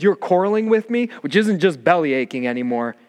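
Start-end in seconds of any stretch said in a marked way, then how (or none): 0.0-1.1 higher, sharp accusing line; a touch of Moses protesting; indignant Moses. Retold or imitated. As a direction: Moses confronting the quarreling people. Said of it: "He says".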